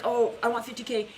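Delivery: mock wistful wanting; wishful wanting. Shown as a demonstration. Coach to viewers, mock wistful wish. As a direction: sound like you're only hoping. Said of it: "it's not like".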